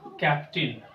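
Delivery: "कैप्टन" said slowly as "kaptin"; correct captain. Shown as a demonstration. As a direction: end "कैप्टन" in a short "tin". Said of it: "इसका सही उच्चारण".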